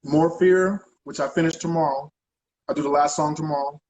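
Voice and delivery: talking with food in mouth; words around a bite of sandwich; mouth full. Real, not acted. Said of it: "I got food in my mouth".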